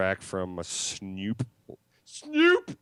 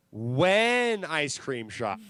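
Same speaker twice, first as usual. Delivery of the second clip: mock slow line; 4 semitones higher, 3 dB louder, much slower than usual. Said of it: "and I was like".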